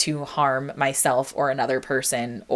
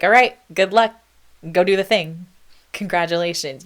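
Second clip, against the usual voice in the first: sarcastic, hearty congratulations; mock cheery send-off; 2 semitones higher, 5 dB louder than usual. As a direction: toss it off like a careless well-wisher. Mocking parents being waved off.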